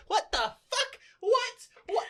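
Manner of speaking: very high, loud squawk of disbelief; incredulous outrage. Retold or imitated. Southerner appalled by the dub accent, incredulous outrage. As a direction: burst out baffled, pitch shooting up.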